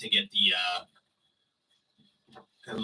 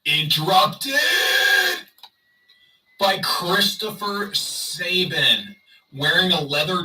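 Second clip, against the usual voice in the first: higher, louder, drawn-out announcing; mock announcement; 6 semitones higher, 5 dB louder, slower than usual. Streamer announcing a wrestler's interruption to viewers, mock announcement. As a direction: proclaim it with mock importance.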